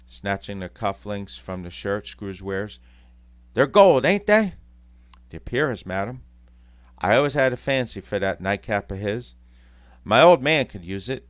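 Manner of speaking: loud, jeering cockney; mock the living corpse; gloating cockney thieves. Thieves gloating over Scrooge.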